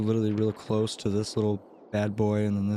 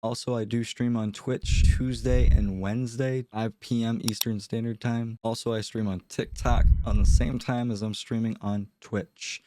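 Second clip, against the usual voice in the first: sick nasal voice. Real, not acted. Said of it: "my sick nasally voice".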